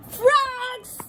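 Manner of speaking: high, loud squawking yell; duck yelling. Acted. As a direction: shout their name across the pond. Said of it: "Duck yelled".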